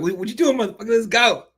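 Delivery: high, loud mock taunt from the cage; taunting fighter. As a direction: imitate the fighter daring him to come. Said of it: "throws his hands up like".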